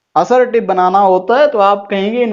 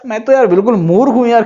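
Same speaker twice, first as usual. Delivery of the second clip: mock surprise; faster than usual. Shown as a demonstration. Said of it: "ये तो बड़ी आश्चर्य की बात है".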